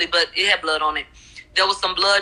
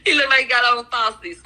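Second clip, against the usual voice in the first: laughing; 5 semitones higher than usual. Real, not acted. Laughing at the witness's eyelashes.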